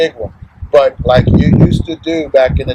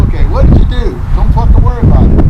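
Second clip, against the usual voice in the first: mock exasperated; 7 semitones higher, faster than usual. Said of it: "I'm like".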